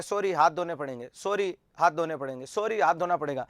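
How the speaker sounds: a hint of a compulsive patient, pitch dropped; repetitive OCD patient. OCD patient apologizing over and over about hand-washing, repetitive low mock apology. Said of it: "वो बार बार कहता है".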